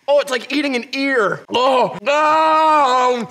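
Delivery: talking while chewing; disgusted, food in mouth; mouth full, chewing. Real, not acted. Seen 2: Right man grimaces, jaw working, mouth likely still holding tentacle.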